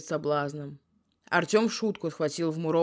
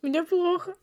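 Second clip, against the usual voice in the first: laughing; 13 semitones higher than usual. Real, not acted. Overwhelmed by laughter.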